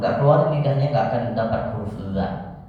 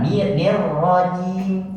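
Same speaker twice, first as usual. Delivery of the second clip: "nir" stretched long and slow, higher; drawn-out nir; 6 semitones higher, much slower than usual. Shown as a demonstration. Teacher showing the student a long "nir". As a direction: draw out "nir rajim" very slowly. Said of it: "teacher models again".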